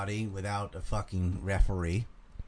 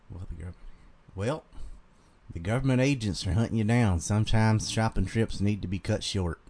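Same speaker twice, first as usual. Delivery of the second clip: Carolina accent; 3 dB quieter than usual. Shown as a demonstration. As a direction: read it in a relaxed Carolina accent. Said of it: "I can just do my normal Carolina one".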